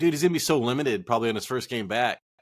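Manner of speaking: ordinary delivery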